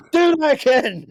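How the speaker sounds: put-on wild, frantic outburst, very high and very loud. Act out someone shaking you by the shoulder and demanding it again, imitating someone absolutely spazzing. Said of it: "just absolutely spazzing".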